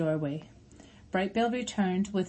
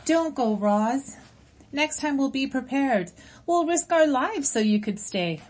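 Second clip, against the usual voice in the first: high, loud pleading crowd voice; crying out; 7 semitones higher, 4 dB louder than usual. Acted. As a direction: beg her not to go, loud and high. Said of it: "Voices cried out".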